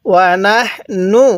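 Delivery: slow drawn-out Quranic chanting; tajweed recitation. Shown as a demonstration. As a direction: recite slowly for students to echo. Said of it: "কিভাবে পড়ব".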